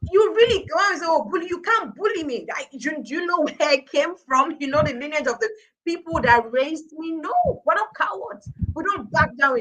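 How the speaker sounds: proud defiant challenge about her military family; defiant pride. Real, not acted.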